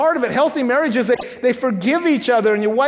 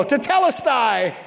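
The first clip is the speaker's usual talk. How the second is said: victory cheer; 2 semitones higher than usual. Shown as a demonstration. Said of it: "I want you all to go".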